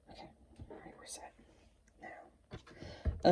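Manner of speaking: real absent-minded whisper. Real, not acted. Host to self while setting up the figure, whispering. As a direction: whisper it to yourself, very soft. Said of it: "I don't know why I'm whispering".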